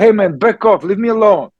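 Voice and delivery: firm boundary. Retold or imitated. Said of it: "I feel this energy in me".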